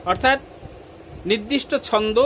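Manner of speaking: ordinary delivery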